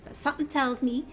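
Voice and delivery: put-on lightly drawled Southern accent read in for a Cockney character; a Southern accent standing in for Cockney, held lightly; Southern twang. Streamer voicing the bitter old schemer Glommet, Southern accent. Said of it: "the heaviest Southern twang that I can pull off".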